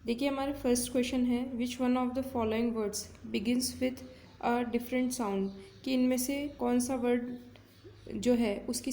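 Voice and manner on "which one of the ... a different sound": slow, careful reading of an exam question; deliberate classroom read-aloud. Shown as a demonstration. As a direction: read each word clearly for students. Teacher reads exam question aloud.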